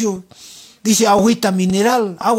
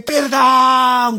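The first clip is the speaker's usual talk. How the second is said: slightly raised, drawn-out mock plea; imitated shout; 4 semitones higher than usual. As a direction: cry out for forgiveness in mock torment. (grito de súplica imitado)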